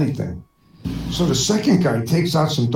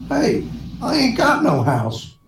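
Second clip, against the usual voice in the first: slow cowboy drawl; 6 semitones higher than usual. Acted. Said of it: "stops and thinks".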